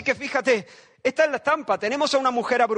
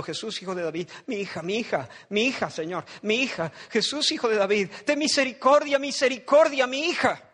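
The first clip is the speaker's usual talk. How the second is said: desperate mother. Acted. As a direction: begin hushed, then rise into begging. Mother crying after Jesus.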